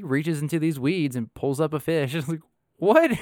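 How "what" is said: high, loud mock shriek of disbelief; amazed disbelief. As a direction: squeak it out, stunned. Disbelief at friend pulling fish.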